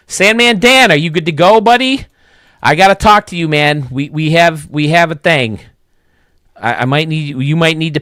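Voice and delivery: loud, high, eager hail to a buddy; loud call out. Real, not acted. Host calling out to Sandman Dan, loud and eager.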